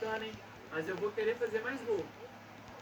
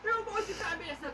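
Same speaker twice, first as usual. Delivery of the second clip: explosive goal commentary; 9 semitones higher than usual. Acted.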